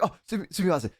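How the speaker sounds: imitated stammered Japanese apology; flustered apology. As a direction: mimic a friend's hurried "sumimasen". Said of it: "Like that".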